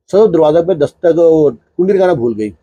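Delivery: ordinary delivery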